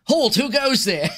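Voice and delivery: high-pitched challenge from a guard; city guard. Acted. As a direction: call out like a guard at the gate. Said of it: "which is a guard".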